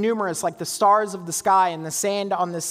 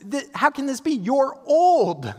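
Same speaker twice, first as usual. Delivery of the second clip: higher, blunt disbelief; wife scoffing at her old husband, pitched up; incredulous Sarah; 7 semitones higher, 4 dB louder than usual. Retold or imitated. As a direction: toss it at him without pulling punches. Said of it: "she turns to Abraham and says".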